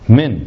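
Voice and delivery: a lone, loud, emphatic من; stress on من. Retold or imitated. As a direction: punch out من on its own to prove the point. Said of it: "من للتبعيض يعني". («من» بنبرة مشددة وعالية)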